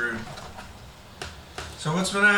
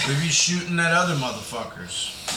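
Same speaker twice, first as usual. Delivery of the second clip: pirate voice. Acted. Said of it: "pirate episode".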